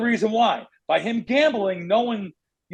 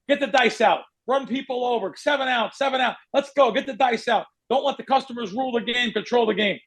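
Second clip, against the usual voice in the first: higher, pushy pit boss orders; 4 semitones higher than usual. Retold or imitated. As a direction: hurry the dealer along. Old-school pit boss voice.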